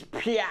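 sudden vocal sound effect of falling fire; imitated fire strike. Shown as a demonstration. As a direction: shoot it out as one burst. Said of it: "come down from heaven like this".

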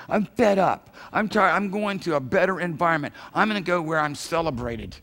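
acted exasperation; fed up. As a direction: imitate someone quitting in a huff. Voicing a fed-up quitter he mocks.

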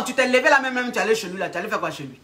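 incredulous grilling. Acted. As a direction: fire the question at the client. Coach grills client about her visit.

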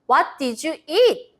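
very slow, carefully spaced model reading; slow model phrase. Shown as a demonstration. Teacher reading slowly for children to repeat after. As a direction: say it slowly so the kids can repeat. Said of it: "선생님이 말하면 친구들이 따라 읽을 수 있겠죠?".

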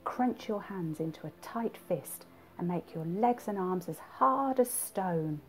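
measured guided relaxation with lifted counts; guided body scan. Acted. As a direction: talk them through tensing, then let each release drop. Repeats the body scan exercise.

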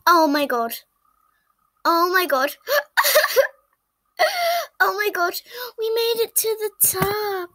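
relieved laughter. Pretend. Made it to the top.

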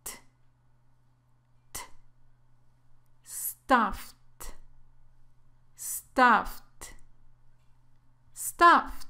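the ed of Stuffed as a bare T sound, then the word; model pronunciation. Shown as a demonstration. Teacher showing learners this ed ending, careful demonstration. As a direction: isolate the T, then Stuffed as one syllable ending FT. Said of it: "se pronuncia así".

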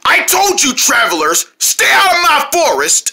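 angry bear shout. Acted.

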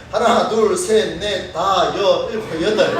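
put-on light Gyeongsang accent, 다섯 cut to 다 and 여섯 to 여. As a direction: count like a Gyeongsang man, clipping the syllables. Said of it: "영남 사람들은 뭐라고 이야기하냐면". (경상도 사투리로 가볍게 세기)

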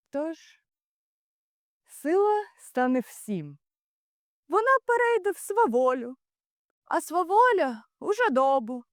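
pitched high, then easing step by step; impassioned warning. Acted. Ulysses warns that force turns to greed, impassioned. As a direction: declaim the chain of ruin from a high peak.

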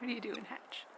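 soft breathy whisper to the bird. Real, not acted. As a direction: whisper so as not to scare it.

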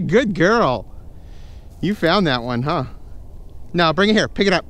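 high sing-song dog praise; squeaky praising a dog. Real, not acted.

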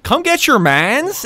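put-on slow, high Toronto Jamaican accent. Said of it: "the ultimate Jamaican accent is Jamaican Toronto".

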